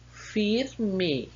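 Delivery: "firme" slowly, its two syllables set apart; syllable-by-syllable dictation. Shown as a demonstration. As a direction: break "firme" into two careful beats. Teacher dictates answer in syllables.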